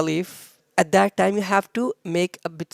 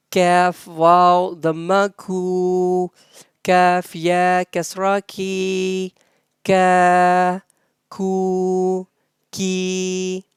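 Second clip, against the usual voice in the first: Arabic spelling drill; 3 dB louder than usual. Shown as a demonstration. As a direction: chant each syllable clearly like a teacher. Arabic letter-vowel recitation drill. (تلاوة تعليمية بطيئة للحروف)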